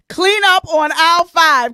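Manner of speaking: loud, slow, laughing through the words; laughing shout. Real, not acted. Laughing with viewers at the video, loud laughing shout. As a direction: crack up while calling it out.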